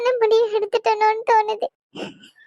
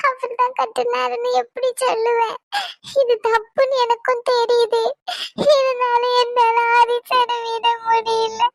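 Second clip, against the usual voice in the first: tearful confession. Acted. Girl confesses, crying.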